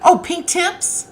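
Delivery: high, slow, drawn-out oh of realizing; light up as it clicks; a slow, high dawning oh; surprised realization. Real, not acted. Realizing the viewer meant pink.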